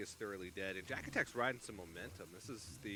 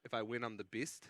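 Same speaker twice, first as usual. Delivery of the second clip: put-on New Zealand accent. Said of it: "Like my New Zealand accent?".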